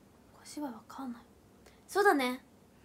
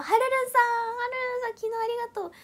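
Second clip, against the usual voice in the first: high, excited thank-you; pitched-up cheer for a supporter; excited shout-out; 9 semitones higher, 7 dB louder, faster than usual. Real, not acted. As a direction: call the name out high and delighted. Calls out third-place supporter, thanks them.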